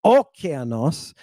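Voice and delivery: "okeanos" stressed on the first syllable, O; wrong-syllable stress. Shown as a demonstration. Teacher showing what it's not, stress on first syllable. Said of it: "It's not".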